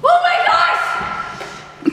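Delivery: high, loud, breathy gasp of recognition; startled gasp. Acted. Stranger suddenly realizing where she knows the woman. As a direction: gasp as it suddenly dawns on you.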